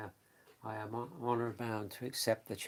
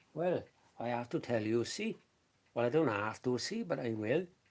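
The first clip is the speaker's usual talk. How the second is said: easy beginner's Welsh accent, voice raised; 5 dB louder than usual. Demonstrating accents, showing one of the easier ones, in a Welsh accent. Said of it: "the Welsh accent".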